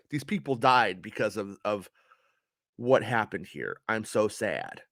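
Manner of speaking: quiet, deadpan imitation of Elora in an American accent; mock American accent. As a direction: drone it out in a flat-toned American accent, mocking her. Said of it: "That's how she speaks in an American accent".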